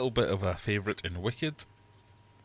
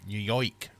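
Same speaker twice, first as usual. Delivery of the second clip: New York with a twisted "oi" vowel; New York accent attempt. Shown as a demonstration. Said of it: "Can't do a New York accent".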